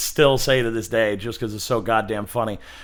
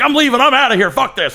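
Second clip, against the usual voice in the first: high, loud indignant old-man impression; imitated outraged outburst; grandpa freaking out; 10 semitones higher, 5 dB louder than usual. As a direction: storm out shouting as grandpa. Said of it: "just freaking out".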